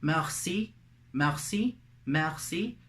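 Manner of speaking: "Merci" said the French way, mehr-SEE; French pronunciation. Shown as a demonstration. Teacher gives thanks in French, French pronunciation. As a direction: model "merci" rising on the last syllable. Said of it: "And in French, you say".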